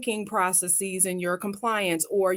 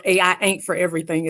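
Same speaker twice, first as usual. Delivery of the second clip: Southern accent; 3 dB louder, faster than usual. Shown as a demonstration. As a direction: lean into a folksy Southern accent. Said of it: "as we would say in the South".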